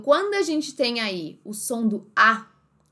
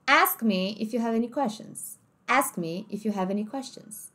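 American accent; 3 dB quieter than usual. Shown as a demonstration. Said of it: "Inglês americano".

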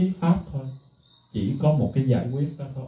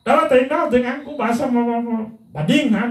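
retold yelling; 8 semitones higher than usual. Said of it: "thầy còn la làng đó".

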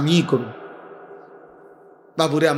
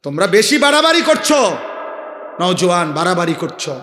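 stern rebuke. Acted. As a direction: call them out for going too far. Preacher rebukes young men. (উঁচু গলায় কড়া ধমক)

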